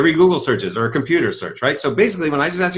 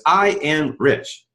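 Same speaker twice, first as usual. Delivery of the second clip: affirmation; much slower than usual. Shown as a demonstration. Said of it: "So a classic affirmation is".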